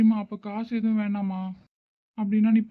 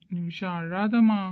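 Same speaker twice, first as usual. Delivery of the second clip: slow, gentle plea to stop crying; tender consoling; slower than usual. Acted. Brother begging his sister not to cry, slow and tender. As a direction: soothe her slowly, like a caring brother.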